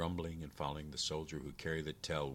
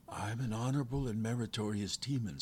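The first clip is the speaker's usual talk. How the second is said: captive demon; 5 semitones higher than usual. Acted.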